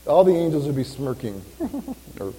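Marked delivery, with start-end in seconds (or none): 1.5-1.9 high sarcastic giggle; mock giggle. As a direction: imitate angels snickering.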